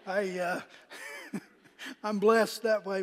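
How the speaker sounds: a soft self-deprecating aside; under his breath. Retold or imitated. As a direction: mumble it to yourself. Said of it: "I kinda said under my breath".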